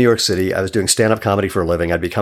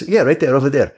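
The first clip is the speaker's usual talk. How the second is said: put-on higher-pitched New York deli accent; put-on counterman accent; 4 semitones higher than usual. Counterman repeats directions to the customer, put-on accent. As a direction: do the deli man's accent, insisting. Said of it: "he spoke with that accent".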